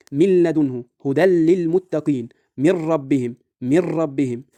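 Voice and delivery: من ربهم as "mir-rabbihim", firm doubled r; idgham without ghunna. Shown as a demonstration. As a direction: recite من لدنه, هدى للمتقين with n swallowed into doubled l. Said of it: "ذهبت الغنة".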